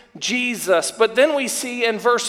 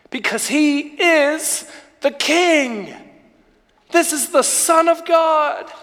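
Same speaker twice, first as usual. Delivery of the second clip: rising preaching; 3 semitones higher than usual. Acted. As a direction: build the praise toward a peak. Preaching litany building up.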